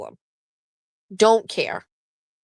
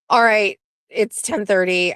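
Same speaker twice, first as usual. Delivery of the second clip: ordinary talk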